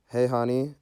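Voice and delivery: imitated motherly holler from another room; mom calling out. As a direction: call out sweetly like somebody's mom.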